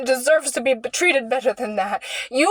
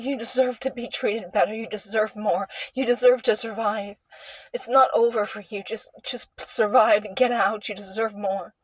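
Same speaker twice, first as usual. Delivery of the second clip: gentle inner voice; 2 semitones lower, 4 dB quieter than usual. Retold or imitated. Higher self speaks gently.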